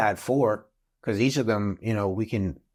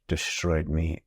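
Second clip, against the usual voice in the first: dismayed whisper; 3 semitones lower, much slower than usual. Retold or imitated. Dismayed at ruined meat.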